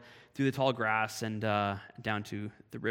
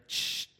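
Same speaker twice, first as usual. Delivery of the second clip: another hissing shh; imitated snake hiss. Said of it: "I hear another".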